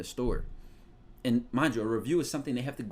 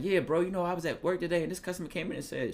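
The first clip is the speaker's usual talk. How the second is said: higher, casual bro voice; venting to your friend about work; homie telling his boy; 6 semitones higher, faster than usual. Retold or imitated. Friend recounting a work story in a raised bro voice. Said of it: "he's like".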